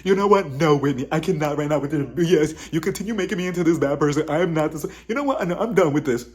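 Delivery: hammed-up indignant rant; mock going off. Woman telling Whitney she is done, mock indignant rant. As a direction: protest in emphatic, exasperated bursts. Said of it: "Lisa is just going off".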